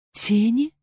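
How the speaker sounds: rising astonished question; disbelieving echo. Acted. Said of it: "изумилась я".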